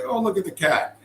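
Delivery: high, sweet imitation of the wife; wife cooing at cat. Wife charmed by a begging cat, high mock coo.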